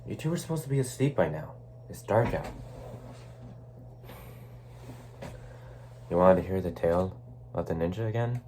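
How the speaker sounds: soft, questioning bedtime voice; gentle bedtime parent. Acted. Parent to two children still awake at bedtime, gently chiding. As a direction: check quietly on children who should be sleeping.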